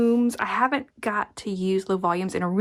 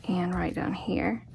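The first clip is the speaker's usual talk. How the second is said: whispering; 2 semitones lower, 6 dB quieter than usual. Real, not acted. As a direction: whisper while you pin. Whispered while pinning.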